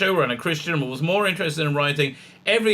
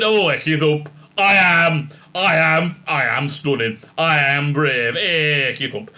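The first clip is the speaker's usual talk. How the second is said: mock northern boast, louder; smug northern Doctor; 4 dB louder, slower than usual. The Doctor boasting back at her companions, mock northern. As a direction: puff up with a hammed-up "Ecky Thump". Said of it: "I said".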